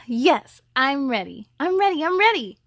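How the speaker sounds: put-on a six-year-old bursting to go; excited. Girl answering her mother at school, eager and rising. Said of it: "replied, excited".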